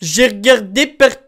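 Homer's whiny grumble, lightly voiced; a hint of a grumpy cartoon dad; Homer Simpson voice. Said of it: "Eh, Homer". (voix d'Homer Simpson)

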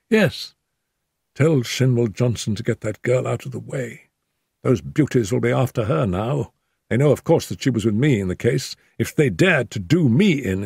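injured Holmes. A narrator's reading. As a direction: speak up from the pillow, hurt but calm.

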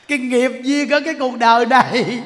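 forceful preaching. Real, not acted. Monk warning listeners about karma after death, forceful preaching. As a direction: press the warning home loudly.

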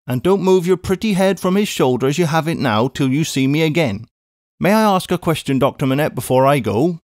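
a brisk English housekeeper calling out; a hint of a bustling maid; Miss Pross.

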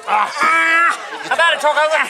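slow drawn-out shout. Real, not acted. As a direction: yell it slowly at the screen. Yelling at the wrestling on TV.

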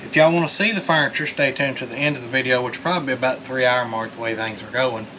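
panting after belly flops; out of breath. Real, not acted. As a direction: talk while catching your breath. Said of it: "Why are you breathing so heavy?".

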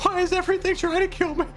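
high, laughing exasperation; laughing despair. Real, not acted. Gamer laughing that everything attacks him. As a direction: laugh in disbelief.

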